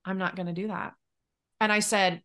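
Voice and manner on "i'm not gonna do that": quiet, even voice, no heat at all; calm firm refusal. Retold or imitated. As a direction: refuse her gently but without budging. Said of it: "very calmly was like".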